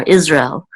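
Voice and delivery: Israel slurred, said the English way. Shown as a demonstration. Teacher contrasting the English word, slurred together. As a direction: Israel in two quick syllables. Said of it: "We would slur it together even more".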